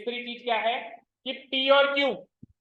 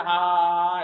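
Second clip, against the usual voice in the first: louder, mechanical mock yes-yes; rote student parroting; 3 semitones lower, 6 dB louder than usual. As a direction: imitate a student nodding along by rote. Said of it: "एक रटी रटाई बात को बोलते ना". (रटने वाले छात्र की नकल, ज़ोर से)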